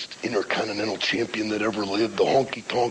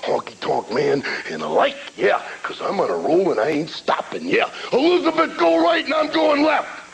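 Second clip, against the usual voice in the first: Macho Man rant. Retold or imitated. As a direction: ramble like a hyped-up wrestler. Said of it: "Macho Man's greatest rant of all time".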